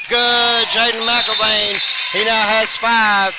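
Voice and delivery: made-shot call; excited call. Real, not acted. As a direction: draw the call out with pleasure. Three-pointer scored, excited call.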